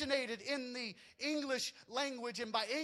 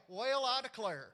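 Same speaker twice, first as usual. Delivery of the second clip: Well, I declare in a mild Southern accent, Well drawn out as weyal; lightly Southern, the way folks down South say it; Southern drawl. Shown as a demonstration. Pastor showing the congregation the Southern way, mild Southern accent. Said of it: "It would have been more like".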